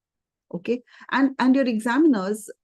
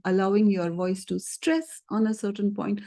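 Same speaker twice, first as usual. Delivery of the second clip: "stress" held and emphasized as a demonstration. Shown as a demonstration. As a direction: punch the word "stress". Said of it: "my voice stressed on the word stress".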